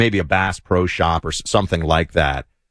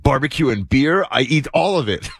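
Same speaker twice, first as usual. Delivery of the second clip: imitating a thrilled tourist; 6 semitones higher than usual. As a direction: marvel at the food. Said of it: "I won't do his accent".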